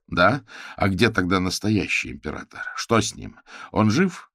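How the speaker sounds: loud, demanding interrogation; raising his voice at her; shouting. Acted. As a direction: hammer her with questions. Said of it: "Не кричите на меня".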